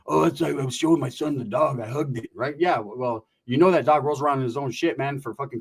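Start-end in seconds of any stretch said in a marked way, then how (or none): 0.1-2.3 dad's excuse. Retold or imitated. Dad explains the stain, acted.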